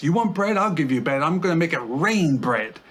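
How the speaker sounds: acted fed-up voice, frustrated and exasperated outburst. Speaker reading out God's words to the Israelites, mock-frustrated, voicing God. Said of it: "you can almost hear the frustration in God's voice".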